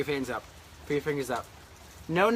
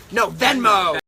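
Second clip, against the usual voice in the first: excited; 5 semitones higher, 9 dB louder, slower than usual. Real, not acted. Catching her own slip.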